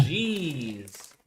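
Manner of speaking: talking while chewing; words around a mouthful of chips; mouth full. Real, not acted. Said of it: "What are you having to eat?".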